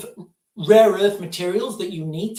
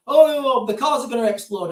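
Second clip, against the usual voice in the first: much higher, louder mock alarm on Oh; imitating people's overblown fear; mock panic; 5 semitones higher, 3 dB louder than usual. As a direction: send up a scared crowd. Voicing panicking public.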